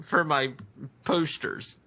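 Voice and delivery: whiny voice. Pretend. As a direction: keep the nasal whine going. Whiny voice game continues.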